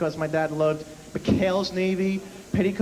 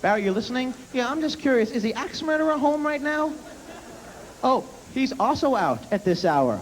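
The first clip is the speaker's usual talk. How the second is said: mock sarcasm; 4 semitones higher than usual. Sarcastic exchange with dad.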